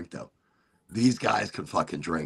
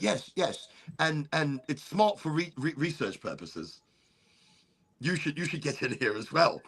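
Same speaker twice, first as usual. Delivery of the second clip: eager British cop; 5 semitones higher, 4 dB quieter than usual. Retold or imitated. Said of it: "He's like".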